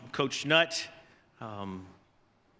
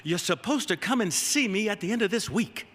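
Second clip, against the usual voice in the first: Coach Broyles; 5 semitones higher than usual. Retold or imitated. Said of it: "In that sweet Southern drawl".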